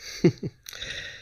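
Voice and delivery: quiet breathy chuckle; mother amused, laughing softly at son; soft airy laugh. A narrator's reading. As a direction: laugh under the breath at him. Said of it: "फिर हंसते हुए बोली".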